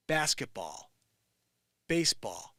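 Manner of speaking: basketball and baseball hammed up the Connecticut way; exaggerated Connecticut accent. Shown as a demonstration. Mocking how Connecticut says sports, overdone Connecticut accent. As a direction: overdo the Connecticut way of saying them. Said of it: "I'm over-exaggerating".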